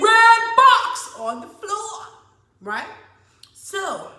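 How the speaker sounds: Christian voice. Retold or imitated. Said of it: "So I simply say in my Christian voice".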